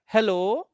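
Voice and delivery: "Hello" alone, rising at the end; first tone group. Shown as a demonstration. Teacher singles out the first group, "Hello" as its own rising tone group. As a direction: lift the end of "Hello" and stop. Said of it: "this is one".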